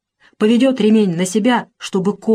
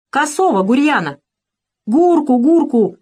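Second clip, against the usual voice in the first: higher, louder shouted names; crowd shouting; 7 semitones higher, 3 dB louder than usual. Acted. Villagers shout their choice to Razin, loud calls. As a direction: call out the nominee from the crowd. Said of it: "закричали собравшиеся".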